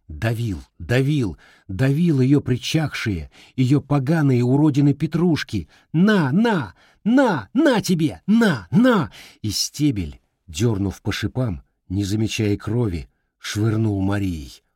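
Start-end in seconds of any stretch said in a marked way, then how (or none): 5.9-9.1 much higher, louder jabbing cries; raging boy. Acted. Boy trampling the flowers in rage, higher and louder. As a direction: stab out each на.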